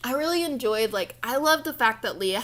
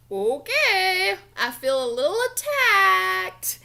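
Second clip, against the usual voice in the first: whispered, high pretend hurt; mock offended; 8 semitones higher, 4 dB louder, slower than usual. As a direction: whisper it like a joking wounded aside. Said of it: "I'm playing".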